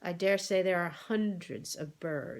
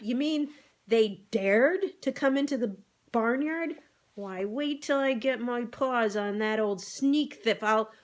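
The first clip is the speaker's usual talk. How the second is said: higher, louder excited outburst; a cat bristling at the news, higher and louder; outraged jump up; 5 semitones higher, 4 dB louder than usual. Acted. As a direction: leap up spluttering with indignation. Jinx jumping up, outraged.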